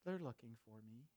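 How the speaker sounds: put-on soft, low child's whisper with a hidden giggle; a lightly voiced whispering child. A narrator's reading. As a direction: whisper it like a kid hiding. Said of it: "Still whispering".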